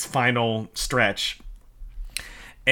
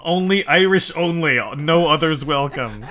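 mock sign, laughing; 4 semitones higher than usual.

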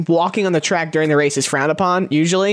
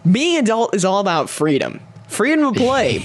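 mock commercial voice. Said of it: "change the word kid to an adult".

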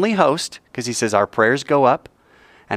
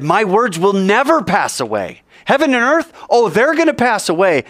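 emphatic proclamation; 7 semitones higher than usual. Acted. Preacher declaims Jesus' words, voice raised.

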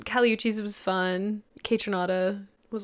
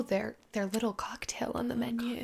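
whispering; 7 dB quieter than usual. Pretend. Mock-dainty aside about bar menu.

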